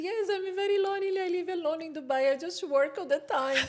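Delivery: high, fast, half-laughing sob; laughing while retelling her own crying; mock crying. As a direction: ham up the lonely tears. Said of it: "And I was crying".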